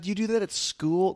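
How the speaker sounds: high-pitched mock mother questioning her son; imitating a scandalized mother, high; imitated shocked mom. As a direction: put on mom's incredulous high voice. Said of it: "and she's like".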